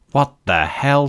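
sudden high shout of alarm. Acted. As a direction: blurt it out, startled and loud. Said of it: "shouted May in her head".

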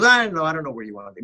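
lightly put-on French accent. Cinematographer unsure about dinner, imitated French accent. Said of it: "but in his French accent".

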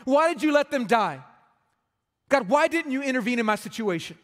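a hint of anguished protest; angry at God. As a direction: voice a hurting listener crying out at God. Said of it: "you're angry with God".

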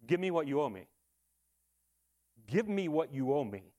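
measured, firm demand at normal volume; debtor's demand. Acted. Servant to the man who owes him, demanding. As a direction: demand repayment, full voice without shouting. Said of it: "And his cry is".

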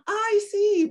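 high, laughing "oh, I see"; a pretend-surprised, giggly "I see"; mock laughing reply. Retells her reply to Steve.

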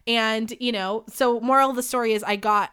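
ordinary delivery

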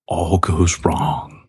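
slow, drawn-out announcement; dramatic reveal. Pretend. Host unveils today's topic, slow dramatic delivery. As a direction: stretch each word for mock drama.

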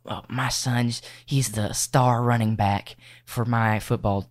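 lightly voiced proud sports mom. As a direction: brag about your son like a proud mom. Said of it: "Probably the mom voice".

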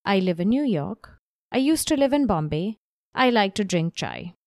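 staccato, robotic delivery; choppy short sentences. Shown as a demonstration. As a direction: read it choppy and flat. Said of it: "That feels really staccato and boring".

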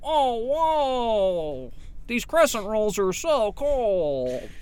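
slow, drawn-out mock Italian accent. Actor auditioning as an Italian Doughboy bully, drawn-out Italian accent. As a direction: stretch the vowels in an Italian accent. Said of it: "you can do an Italian accent".

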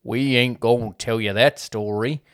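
badly faked Southern folk narrator; terrible Southern accent. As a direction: attempt a Southern American rooster's accent, clumsily. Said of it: "that was a terrible accent".

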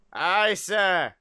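put-on weak first try at a Scottish accent; half-landed Scottish reply to the captain; unconvincing Scottish engineer; bad Scottish accent. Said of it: "not a good way to say that in a Scottish accent".

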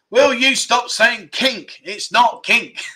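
slow, high mock telling-off; playful exasperation. Real, not acted. Host to players guessing kink, slow playful exasperation. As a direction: scold them word by word, laughter close behind.

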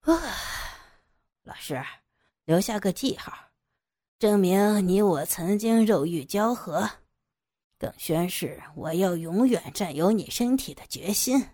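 a possessive captor's swooping delivery; hint of a villain savouring control; lightly voiced menacing villain. Captor alone with his unconscious victim, lightly voiced gloating villain.

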